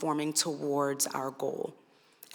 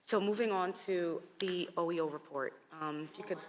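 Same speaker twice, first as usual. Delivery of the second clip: losing voice; 6 dB quieter than usual. Real, not acted. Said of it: "I'm losing my voice".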